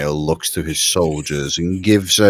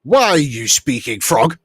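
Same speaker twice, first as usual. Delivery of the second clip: raised, urgent officer's challenge; commanding officer; 6 semitones higher than usual. Acted. Leader addressing all of the party, commanding and suspicious.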